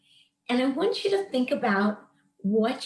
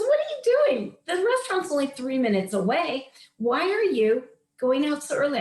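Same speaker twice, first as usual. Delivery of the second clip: jumps up high on "What are you doing", then settles; a husband caught off guard, puzzled; surprised question; 4 semitones higher than usual. Retold or imitated. Husband questions her leaving early.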